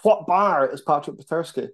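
a light, hammed-up show-host voice; mild mock presenter catchphrase; OSW presenter. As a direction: quiz the crowd like the show host. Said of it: "just going full O S W".

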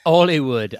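Hollywood said as 'ollywood; dropped H. Retold or imitated. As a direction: echo Hollywood with the H left off. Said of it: "Yeah, drop the H".

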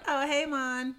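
high, loud sitcom-style imitation; Monica. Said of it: "she sounded just like fucking Monica".

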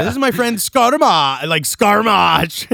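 high, loud mock Italian accent. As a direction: stretch the name out in hammed-up Italian. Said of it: "an orcish name sound Italian".

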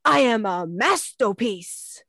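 lightly voiced proud son; proud little boy. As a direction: say it like a proud kid. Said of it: "he repeated it".

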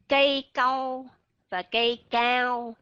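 "câu" short, "cao" drawn out; contrasting câu and cao. Shown as a demonstration. Teacher contrasting câu and cao for students. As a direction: set "câu" against a long "cao". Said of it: "là khác nghĩa với nhau".

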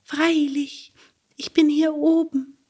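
high, small creature voice; cricket voice. Acted. Cricket answers from the beam, high and small. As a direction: chirp it down from above.

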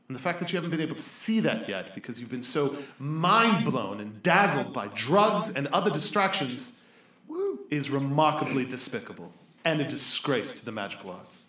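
disdainful telling-off, punching key words; stern scolding. Acted. Mage scolding a student for wasting time magic, sternly. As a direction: scold with weighty emphasis on each insult.

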